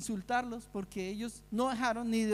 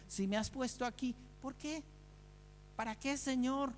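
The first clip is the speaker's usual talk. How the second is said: soft, questioning plea to the Lord; hushed prayer; 3 semitones higher, 7 dB quieter than usual. Acted. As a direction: ask God quietly, almost under the breath. (oración en voz baja y suplicante)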